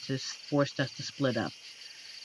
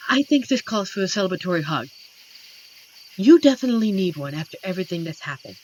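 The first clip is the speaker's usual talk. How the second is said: excited; 3 semitones higher, 7 dB louder, much faster than usual. Acted. Celebrating, offering a hug.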